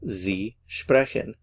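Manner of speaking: Sie sprechen, with Sie lifted high and drawn out; careful model pronunciation. Shown as a demonstration. Teacher showing learners the formal Sie, stress on Sie. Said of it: "Notice the difference is the capital S".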